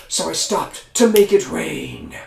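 dragon explains. Acted. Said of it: "The dragon said".

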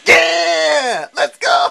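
high, loud yell with a laugh; victory shout. Real, not acted. Gamer celebrating his win, laughing shout. Winning the round.

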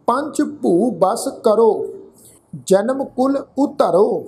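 drawn-out, measured chant of the verse; scripture read like a path; slow scripture recitation. Acted. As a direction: intone each word slowly, reverently.

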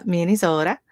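put-on playful Minnesota accent on "Minnesota". Streamer agreeing with a chat joke, mock Minnesota accent. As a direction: say "Minnesota" with Minnesotan vowels, "Minni-zota".

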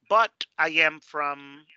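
"but" stressed, "but I am from" slowed down; correcting someone, leaning on "but I am from"; slow contrastive demo. Shown as a demonstration. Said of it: "tú puedes corregirlos diciendo".

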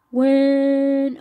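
loud mock shout of When. Jack voiced saying when loudly.

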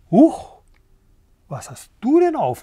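startled, high-pitched clucky question; cackling hens. A narrator's reading. Hens startled by the rooster's crown, cackling in high surprise. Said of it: "gackerten sie".

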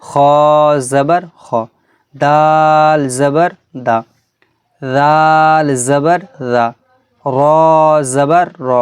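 letter name held long and level, last syllable short; slow, measured spelling chant; Quran primer recitation. Shown as a demonstration. Teacher models Arabic letters for students, drawn-out recitation.

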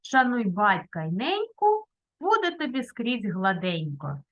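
proverb dictated. Shown as a demonstration. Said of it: "запишемо такі рядочки".

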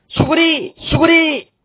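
high, urgent Gyeongsang yell of duck; Gyeongsang dialect shout. Retold or imitated. Gyeongsang sparrow warns the flock of the hunter, urgent Gyeongsang shout. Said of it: "이렇게 이야기하니까".

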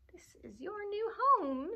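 high, gleeful witch voice. Acted. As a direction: crow it with wicked glee. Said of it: "said the witch gleefully".

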